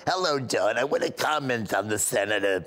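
a hint of Boca old lady; Iris. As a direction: announce a comment as an elderly caller. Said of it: "I called up and I go".

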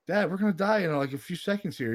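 mock panic. Retold panic to father in boat.

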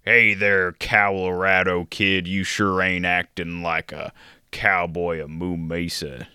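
lightly done Walken impression, slow; Christopher Walken. Co-host greets host as Christopher Walken. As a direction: drawl it with odd pauses like Walken. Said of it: "the best Christopher Walken".

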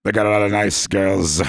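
A song's growl. Retold or imitated. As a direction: mimic the song's mumbled growl. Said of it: "Just like that".

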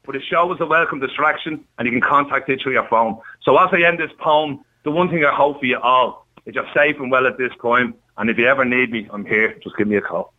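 poem read out on air; poem recital. Acted. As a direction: carry on reciting, settling down to a sign-off. Resumes reading his poem.

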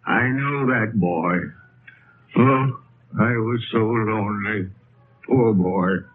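near tears. Acted. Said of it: "Your lip is trembling".

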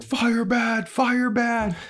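very high, grunted caveman cry; dumb caveman. Retold or imitated. Cavemen shrinking from the lighter, high caveman cry. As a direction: blurt it like a scared brute.

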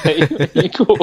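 laughing through the words; giggling, can't keep it straight. Real, not acted. Cracking up during intro.

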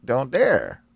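low mock proclamation; a hint of a barbarian warlord. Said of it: "my declaration to the squirrel".

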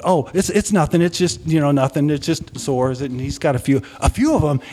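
acting out a mother playing it down; dismissive mother. Mother brushes off worried question.

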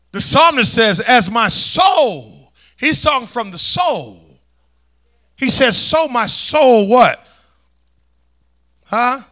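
loud bursts on the psalm's key words; forceful preaching. Real, not acted. Preacher expounding the psalm to the congregation, forceful preaching.

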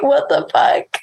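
retold annoyance, understated; lightly mocked irritation; mildly pissed imitation. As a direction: imitate someone fed up without raising the voice. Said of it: "like, so pissed".

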